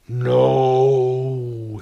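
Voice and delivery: huge, booming god's command; thundering. A narrator's reading. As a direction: thunder it out like Zeus. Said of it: "thundered Zeus".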